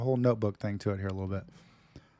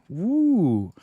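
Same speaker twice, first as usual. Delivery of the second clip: high, loud whoop of delight; excited whoop; 7 semitones higher, 4 dB louder than usual. Real, not acted. Preacher cheering at the poem's romance, a loud whoop. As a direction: let out a playful cheer. Hyped by the love poem.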